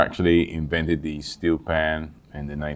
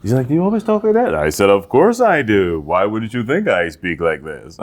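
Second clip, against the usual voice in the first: his voiceover voice; 3 semitones higher than usual. Retold or imitated. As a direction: talk like a smooth announcer. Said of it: "I talk to people like that".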